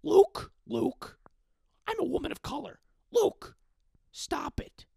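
high Marge Simpson-like mother nagging her son; exaggerated Marge-style mom; mom impression. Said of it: "my mom sounds like Marge Simpson".

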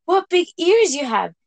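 put-on little girl voice. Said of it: "said Little Red Riding Hood".

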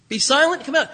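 firm, loud command; stern rebuke. Acted. Jesus ordering the unclean spirit out, stern and loud. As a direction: cast the spirit out firmly. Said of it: "Jesus rebuked the man".

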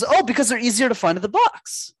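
lightly voiced squeaky little girl, a bit high; a hint of a bright kid explaining; squeaky six-year-old voice. Coach imitating the girl's answer, mildly squeaky and childlike. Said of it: "in her little stu-, squeaky six-year-old voice".

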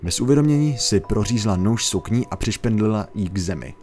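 steady spooky storytelling read; narrating a creepy legend to viewers; story narration. A narrator's reading. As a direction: tell it like a campfire horror tale. Reads a scary story.

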